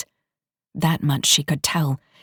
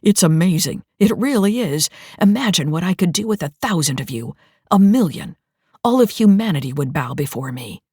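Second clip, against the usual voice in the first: gloating excitement; 3 dB louder than usual. Acted. Villain megalomaniac rant.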